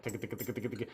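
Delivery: soft rapid ticka ticka under the breath; quiet ticking feed call. Retold or imitated. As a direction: tick it quietly and fast like a duck call. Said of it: "sitting in class going like".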